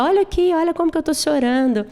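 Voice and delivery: high, whiny show of tears; fake-crying Serpina. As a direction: play up the tears to win him over. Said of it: "Ou seja".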